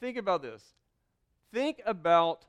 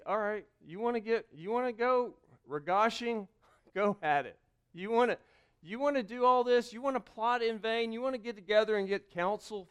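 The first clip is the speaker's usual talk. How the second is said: mocking dare; 3 semitones higher than usual.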